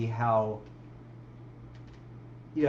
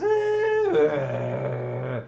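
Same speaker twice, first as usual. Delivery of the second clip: higher, half-hearted mock rant; mock lashing out; 6 semitones higher, 5 dB louder than usual. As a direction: rant like a threatened diva. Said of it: "it goes".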